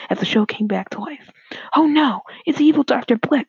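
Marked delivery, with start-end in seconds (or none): 1.8-3.5 higher, louder cry of dismay; alarmed cry. A narrator's reading. Cartoon hero spots the evil doctor, alarmed cry. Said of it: "cried Asteroid Man".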